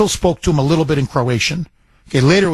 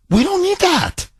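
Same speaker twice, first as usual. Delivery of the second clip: much higher, mocking the idea; high mock emphasis; 14 semitones higher than usual. Dismissing unwanted immigrants, high mocking voice. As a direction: toss it off in a squeaky high voice. Repeats the line, pitched way up.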